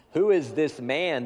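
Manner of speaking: loud, slow, stunned cry; awed cry. Acted. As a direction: cry out in awe and fear. Terrified disciples ask each other.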